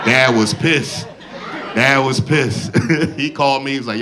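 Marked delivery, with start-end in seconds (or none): 0.1-1.1 slow, drawn out. Acted. Comic announcing his dad's anger, slow drawn-out emphasis. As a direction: stretch it out slow, with a rising finish. Punchline said twice, first drawn out.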